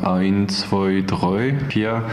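learner's Swabian counting, oi vowels; Swabian dialect. Shown as a demonstration. French volunteer shows how locals count, in Swabian dialect. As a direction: count in Swabian, "oins, zwoi, droi". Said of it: "ein paar Wörter in Schwäbisch".

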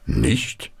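surprised grandpa. A narrator's reading. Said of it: "wunderte sich Opa Paul".

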